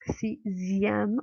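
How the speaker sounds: "Sixième" split before a clear z; sound demonstration. Shown as a demonstration. Teacher pointing out the Z sound, "Sixième" in slow syllables. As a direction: say "Sixième" slowly as si-zième. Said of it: "on entend le son Z".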